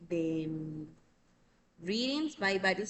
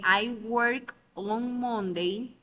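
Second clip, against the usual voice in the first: slow, louder English example, each word placed; slow example sentence; 3 semitones higher, 6 dB louder, much slower than usual. Shown as a demonstration. Teacher demonstrates a time preposition, slow and clear. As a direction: read it out slowly so students catch the preposition. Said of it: "Pero si yo digo".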